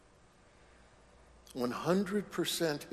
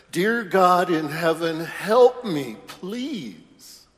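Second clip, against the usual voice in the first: loud desperate plea, high; screaming to heaven; 5 semitones higher, 10 dB louder, slower than usual. Acted. Falling climber screams up to heaven for help. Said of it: "he screams up to heaven".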